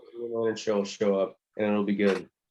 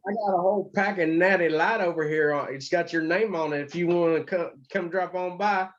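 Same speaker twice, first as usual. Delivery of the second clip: put-on hick Texas accent; 6 semitones higher than usual. Cohost inviting host over for beer, Texas hick accent. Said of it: "talk like we're a bunch of hicks from, uh, Texas".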